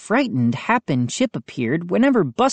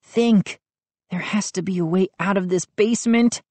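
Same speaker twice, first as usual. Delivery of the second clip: urging; 3 semitones higher than usual. Acted. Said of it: "I urged myself".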